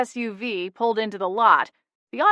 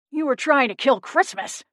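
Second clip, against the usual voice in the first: higher, angry gnome shout; 6 semitones higher than usual. A narrator's reading. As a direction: shout the accusation. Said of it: "Buzz shouted".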